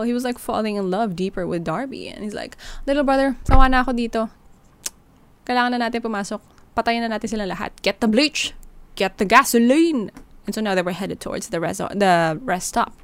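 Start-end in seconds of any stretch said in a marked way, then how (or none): 2.8-10.1 menacing order. Retold or imitated. Villain orders killing everyone.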